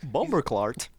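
drawn-out Caribbean curse; playful West Indian accent; mock Caribbean accent. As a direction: put on a Caribbean accent for the punchline. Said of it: "when you talk to other, you know, Caribbean people".

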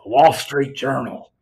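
slow, mock dulcet newsreader voice; Harrison Ford reading. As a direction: read it slowly, like a drowsy anchor. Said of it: "Harrison Ford just reading a newspaper".

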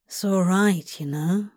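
soft and reassuring. Acted. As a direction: gently reassure him. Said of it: "he said softly".

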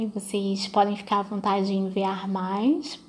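whispered aside to listeners; whispering. Real, not acted. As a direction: drop to a whisper.

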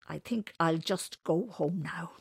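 slow, understated sadness; softly and sadly. Acted. Beaten Winters decides to go home, quietly sad. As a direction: let it out slowly, a touch defeated. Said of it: "he added softly and sadly".

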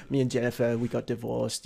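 wobbly mock-Australian voice; bad Australian accent. Son telling parents about divorce, bad Australian accent. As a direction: attempt an Australian accent and miss. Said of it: "bad Australian accent that turned into not".

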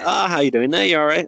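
imitated Northern Irish hello; Northern Irish accent. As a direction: greet them in a Northern Irish lilt. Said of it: "him who's from Northern Ireland".

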